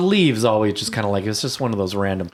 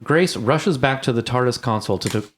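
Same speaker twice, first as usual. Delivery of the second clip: recap narration; 3 semitones higher than usual. Acted. Reads episode recap.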